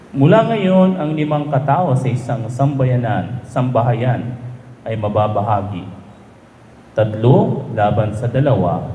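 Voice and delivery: measured liturgical reading voice; gospel reading. Acted. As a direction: priest reading the gospel at mass.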